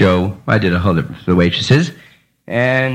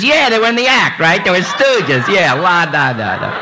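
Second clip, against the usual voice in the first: mocking schmuck; 6 semitones higher than usual. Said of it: "some other schmuck says".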